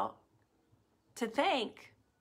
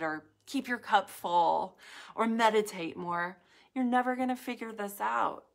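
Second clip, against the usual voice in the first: mock inner critic; 3 semitones higher, 4 dB louder than usual. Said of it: "That voice never says things like".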